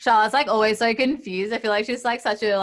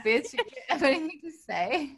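mock bitchy Charlotte; 8 semitones higher than usual. Imitating Charlotte's snippy glare.

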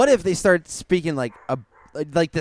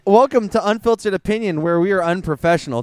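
higher, projected welcome; hammed-up podcast intro; mock show host; 3 semitones higher, 4 dB louder than usual. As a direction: greet the listeners like a show host. Mock show welcome over the barking.

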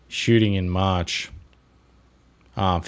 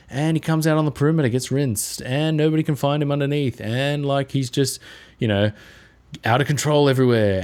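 exasperated fan; 6 semitones higher than usual. Retold or imitated. Mocking frustrated fan voice.

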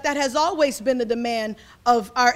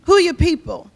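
lightly voiced folksy question, higher and louder; Southern folk asking; 4 semitones higher, 7 dB louder than usual. Folk in the South asking who you belong to, lightly voiced insistent question. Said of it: "folk gonna ask you".

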